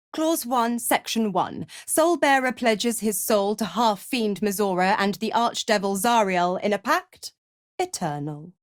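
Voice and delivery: crisp, official reading of legal terms; formal contract recital; reciting a contract. Acted. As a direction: recite the clause like a devilish lawyer. Devil recites contract clauses.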